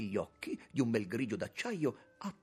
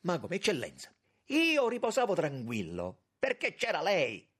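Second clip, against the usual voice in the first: very high, loud, agitated outcry; frantic protest; 11 semitones higher, 7 dB louder than usual. A narrator's reading. Young man wringing his hands reproaches the minister, frantic. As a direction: cry out in desperate reproach. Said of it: "smaniando, torcendosi le mani".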